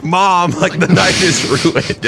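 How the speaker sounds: high, drawn-out wail imitating a drunk; mock drunk-sad. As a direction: whine to mom like a hammed-up tipsy daughter. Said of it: "she was drunk sad".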